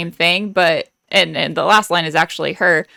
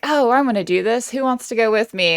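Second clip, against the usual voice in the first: higher-pitched, mildly acted eagerness; eager volunteering; 5 semitones higher than usual. Retelling eager mouse Bianca seeking a partner, mock eagerness. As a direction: pipe up lightly as the keen volunteer.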